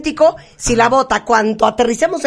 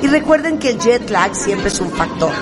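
copilot announcement; 3 semitones lower than usual. Shown as a demonstration. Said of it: "puedo decir una cosa, capitán?".

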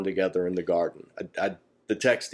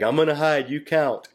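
put-on lightly higher childlike voice; playful kid; 5 semitones higher than usual. Kid telling parent to count, playful childlike voice. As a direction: play the excited little kid hiding.

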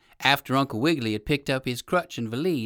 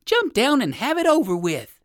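gruff alligator; 10 semitones higher, 6 dB louder than usual. Acted. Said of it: "he called to Uncle Wiggily".

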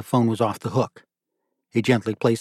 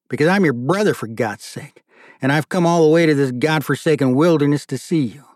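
higher and pressing, exasperated brother; agitated; 3 semitones higher than usual. Acted. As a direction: push the complaint hard. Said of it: "he said in an agitated tone".

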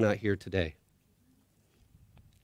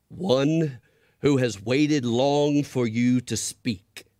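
very slow, lower, grand voice; large, deep voice; 2 semitones higher, 4 dB louder, slower than usual. Acted. Unseen creature answers the scared boy, slow and grand. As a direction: speak slowly, vast and calm. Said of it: "very large and deep".

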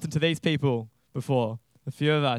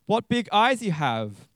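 put-on slow, higher little-girl voice; Little Red Riding Hood; 5 semitones higher than usual. Girl marvels at disguised wolf's eyes, slow girlish voice. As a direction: draw it out like a wondering child. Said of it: "said Little Red Riding Hood".

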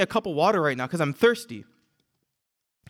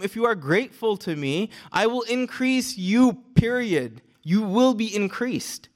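slow, weighted "I will increase you"; each word of "You will be increased" spaced out for certainty; emphatic promise; slower than usual. Retold or imitated. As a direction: stretch "increase you", then a final, decisive "period". Voicing God's unconditional promise.

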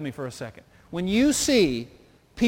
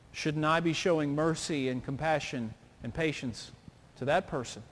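humble inner thought; 4 semitones lower, 4 dB quieter than usual. Retold or imitated. Humble inner thought, voiced quietly.

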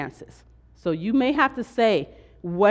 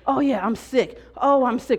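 mock sick moaning; 5 semitones higher than usual. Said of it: "continuously say all day long to every single person".

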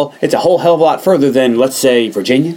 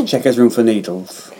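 quoting her line; 3 semitones lower, 4 dB quieter than usual. Retold or imitated. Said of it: "I love the way she says it".

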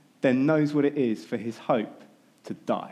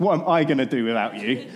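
selfish subtext. Retold or imitated. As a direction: say what he really means, rising at the end.

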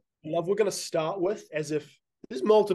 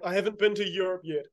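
mock despair; 2 semitones higher than usual. Mimics the other's overblown teenage despair.

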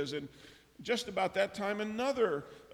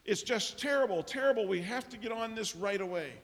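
raised, urgent ranting; agitated rant; 6 semitones higher, 4 dB louder than usual. Retold or imitated. Assistant rants to the prime minister, upset and urgent. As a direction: rant in alarm, high and loud at first. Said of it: "in the middle of his rant".

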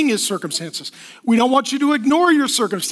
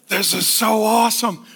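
put-on voice, lower pitch; delighted letter writer; 4 semitones lower than usual. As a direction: act lost in admiration, low. Voicing Paul delighted while writing.

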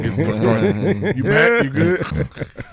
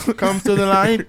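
slow, higher ghostly beckon; slow beckoning call; 6 semitones higher, slower than usual. Pretend. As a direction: draw them in, slow and eerie. Calling someone toward death.

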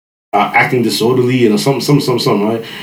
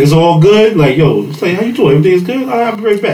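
sweet-talking parent; 5 semitones higher, faster than usual. Retold or imitated. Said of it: "They make you".

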